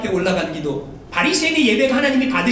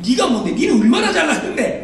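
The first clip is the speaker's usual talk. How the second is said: mock angry retort; 3 semitones higher than usual. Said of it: "여러분 당장 뭐라 그래요?".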